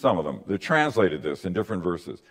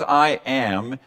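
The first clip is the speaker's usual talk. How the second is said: "I am" said with weight on both words; a firm, pointed "I am"; emphatic I am; 3 semitones higher than usual. Shown as a demonstration. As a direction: lean into "I am" as a claim. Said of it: "in this emphatic way".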